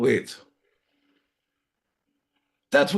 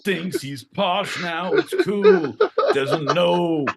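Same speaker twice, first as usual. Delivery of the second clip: mock South London accent; 4 semitones higher than usual. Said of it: "we're gonna do accents".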